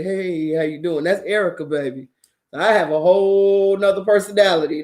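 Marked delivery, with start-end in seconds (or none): 0.0-1.0 Erica's come-on. Retold or imitated. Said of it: "she comes straight out and say".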